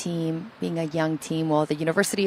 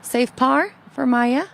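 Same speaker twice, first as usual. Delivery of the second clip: excited call; 7 semitones higher, 7 dB louder than usual. Real, not acted. Calling a made par.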